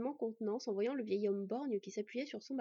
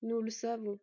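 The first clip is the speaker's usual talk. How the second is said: gentle. Acted. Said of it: "d'une voix douce".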